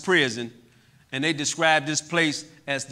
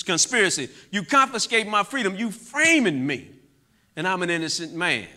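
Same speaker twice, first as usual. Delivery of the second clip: raised, heated voice replaying his courtroom rant; retold furious outburst; 4 semitones higher, 4 dB louder than usual. Angry young man retelling his rant to the judge, retold fury. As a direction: accuse the whole court all over again, half-acted anger. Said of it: "I'm furious, you know, at this system".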